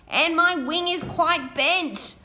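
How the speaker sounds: small high moth voice; moth's squeak. Acted. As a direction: squeak it like a tiny hurt moth. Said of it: "squeaked a black and white moth".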